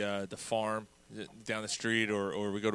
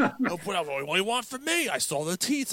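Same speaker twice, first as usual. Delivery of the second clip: much higher whiny mock voice; dismissive Dave; 8 semitones higher than usual. Host mimicking Dave brushing him off, high whiny voice. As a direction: shrug it off in a whiny voice. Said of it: "he's like".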